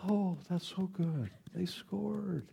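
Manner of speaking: soft, flat, muted praise; the mild way a fan does not react; mock tame reaction. Shown as a demonstration. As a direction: say it like it hardly matters. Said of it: "It doesn't do like".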